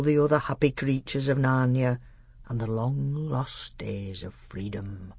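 lightly voiced, measured old doctor; understated solemn old storyteller voice; old dwarf tutor, solemn. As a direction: confide it gravely as an aged mentor. Old half-dwarf tutor confides his history.

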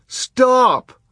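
high, loud command; ordering. A narrator's reading. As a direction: order him to stop. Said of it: "Violet ordered".

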